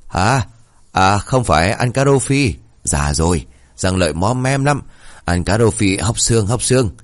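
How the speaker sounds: mishearing grandpa rambling on; lightly voiced old man.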